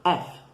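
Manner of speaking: fast clipped F; quick English F. Shown as a demonstration. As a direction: say "F" short and fast. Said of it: "você vai falar um F meio que rápido".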